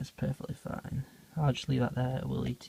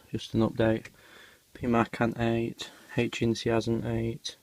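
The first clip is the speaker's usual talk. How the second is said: heavy breathing between words; slower than usual. Real, not acted. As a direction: talk while catching breath. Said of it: "sorry about the heavy breathing".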